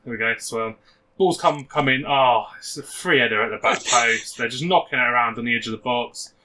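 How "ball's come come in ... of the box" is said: lightly voiced match commentary; radio commentary. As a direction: call the goal like local radio. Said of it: "Be, be Steve Watkins".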